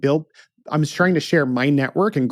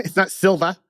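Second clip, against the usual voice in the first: laughing; 4 semitones higher than usual. Shown as a demonstration. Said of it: "It's not my New England accent".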